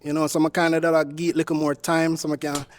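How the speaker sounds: light Jamaican accent put on to charm a woman; easy Jamaican patois lilt, played cool. Suitor on a dating show charms her in a Jamaican accent. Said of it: "using your Jamaican accent".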